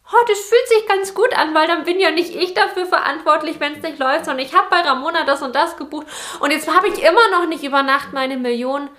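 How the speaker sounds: a hint of a smug, naive client; mock client voice. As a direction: play the client who is glad someone else is to blame. Voicing a client who shirks responsibility.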